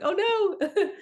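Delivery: high, loud mock-alarmed "oh no" breaking into laughter; mock dismay. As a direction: playfully exclaim in exaggerated dismay, laughing. Replays her reaction to red tongue.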